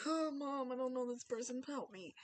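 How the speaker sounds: lightly voiced scared kid; shy child. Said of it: "Or they'll just be like".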